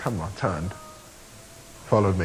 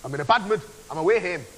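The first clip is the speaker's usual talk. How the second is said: attempted Scottish accent, pitched up; 4 semitones higher than usual. Shown as a demonstration. Proving to David he can do Scottish, Scottish accent demo. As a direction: show off a Scottish accent, a little higher. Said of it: "he thinks I can't do a Scottish accent".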